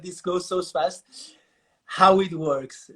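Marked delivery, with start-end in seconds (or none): 1.8-2.9 slow. Shown as a demonstration. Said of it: "let me do it again".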